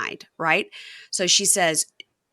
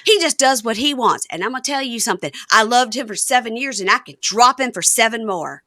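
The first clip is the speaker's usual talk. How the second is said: imitating a fed-up wife, raised pitch; emphatic, louder mock rant; indignant; 5 semitones higher, 4 dB louder than usual. Wife complaining to camera about husband, indignant. Acts out wife's talking-head rant.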